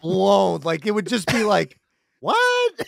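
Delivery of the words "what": high-pitched mock-baffled "what?"; stunned disbelief. Imagining a Garden audience's blown minds, stunned disbelief. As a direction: squeak it out as a dumbfounded crowd.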